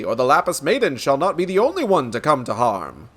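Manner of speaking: lightly voiced pompous gentleman, emphatic; resolute inspector. Inspector vowing to protect the Lapis Maiden, resolute. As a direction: declare it with heroic weight.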